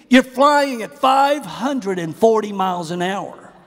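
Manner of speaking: mock-scold with pitch lifted, leaning on the big numbers; incredulous rebuke. Preacher thinking at the complaining airplane passenger, incredulous.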